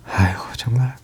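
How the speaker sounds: whispered sigh of disgust; exasperated whisper. Real, not acted. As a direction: breathe it out, fed up. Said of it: "정말 화가 나서". (속삭이듯 한탄하는)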